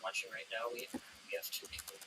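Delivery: glitchy robotic audio, breaking up; distorted like a bad connection. Real, not acted. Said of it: "you sound like a robot".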